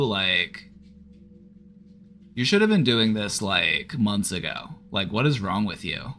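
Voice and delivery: put-on lightly whining teen, nagging with swooping stresses; a touch of whiny teen judgment; whiny teenager. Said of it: "Give it the voice of a whiny teenager".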